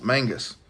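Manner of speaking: Mangus said MANG-gus with the n sound; Mangus, the "mang" syllable leaned on; correct name repeated. Shown as a demonstration. Settling a buddy's name, Mangus confirmed. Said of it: "Not Magnus".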